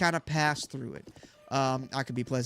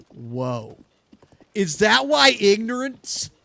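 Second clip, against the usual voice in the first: surprised; 5 semitones higher, 10 dB louder than usual. Real, not acted. Sudden word realization.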